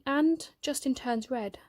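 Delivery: high, slow, halting confession; boy finally telling his friend he'll miss him, halting; tearful admission. Acted. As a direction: let it catch before the last words.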